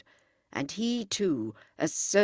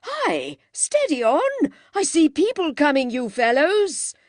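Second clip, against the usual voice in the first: high, loud urgent call; warning shout; 9 semitones higher, 7 dB louder than usual. A narrator's reading. Mister Beebe warns the boys people are coming, high urgent shout. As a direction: shout a warning across the woods. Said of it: "Then his voice changed".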